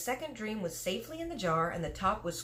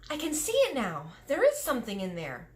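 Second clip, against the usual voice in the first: put-on higher, excited girl's cry; cried out; 5 semitones higher, 4 dB louder than usual. Sophie peering into the jar, excited cry. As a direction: blurt out the discovery. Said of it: "cried out".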